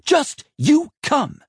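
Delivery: slow, very high scolding order; cross mistress commanding; stern summons. A narrator's reading. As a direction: order the boy along, each word drawn out. Rachel marches the boy off.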